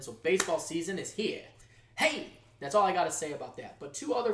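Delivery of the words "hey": excited cheer. Real, not acted. Cheering for baseball season.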